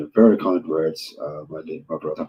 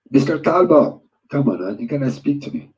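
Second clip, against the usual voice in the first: higher, louder call across the room; calling out a viewer's name, higher and louder; 8 semitones higher, 3 dB louder than usual. Real, not acted. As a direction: call his name loud and high to get his attention. Calls out to silent viewer.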